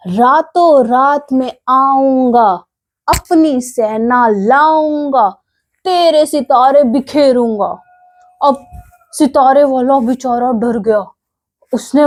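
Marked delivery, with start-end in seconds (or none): 0.1-7.8 slow, mock-menacing mouse threat; angry threat. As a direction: spell out the threat slowly, a touch of anger. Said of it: "चूहे को फिर से गुस्सा आ गया". (धीमी, हल्की गुस्से वाली धमकी)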